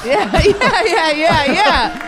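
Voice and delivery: high, loud laughing agreement; cracking up while agreeing; laughing yeahs. Real, not acted. Podcast host laughing along with a cohost's dad joke.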